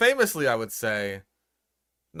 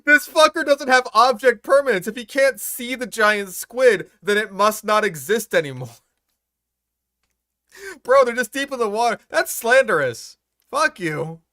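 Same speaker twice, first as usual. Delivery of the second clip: indignant rant; 7 semitones higher, 3 dB louder than usual. Real, not acted. Ranting at the video narrator.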